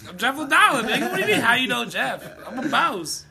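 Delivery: loud, high, laughing brag; mock-offended boast through laughter; boastful mock reply. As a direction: brag like a big shot who can't believe the question. Acting out Jeff's boastful reply.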